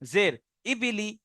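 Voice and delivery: slow drill, word by word; slow reading drill. Shown as a demonstration. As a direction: read the words slowly one by one. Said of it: "বাকি শুধু reading করবেন". (ধীরে ধীরে শব্দ পড়া)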